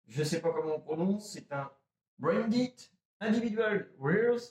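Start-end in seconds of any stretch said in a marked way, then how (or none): 2.2-4.4 English brand name read slowly with a heavy French accent; bad French accent on English. Real, not acted. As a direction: stumble through the English words with a strong French accent. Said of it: "mon accent est à chier". (nom de marque anglais lu lentement avec un fort accent français)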